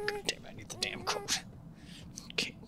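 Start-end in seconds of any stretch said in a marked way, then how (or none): 0.1-1.4 retold frustration. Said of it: "I'm like".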